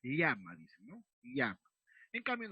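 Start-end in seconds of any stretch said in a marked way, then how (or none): 0.0-0.5 "llama" begun with a palatal l, like "lyama"; Andean LL. Retold or imitated. Teacher shows Andean speakers' word, palatal LL. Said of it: "queremos pronunciar el sonido o el fonema L". 1.2-1.6 "Llama" said as "lyama"; Andean LL. Retold or imitated. Teacher repeats the Andean example, palatal LL. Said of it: "los de la región andina suelen pronunciar".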